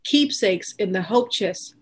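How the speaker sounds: measured, deliberate poetry reading with pauses between lines; poem recitation. Acted. Poet reads mother's poem to library audience, measured recitation. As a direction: read each line as verse, stressing key words.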